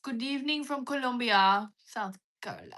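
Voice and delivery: hammed-up announcer. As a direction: read the shoutout like a grand host. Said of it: "I don't know why I said it like that".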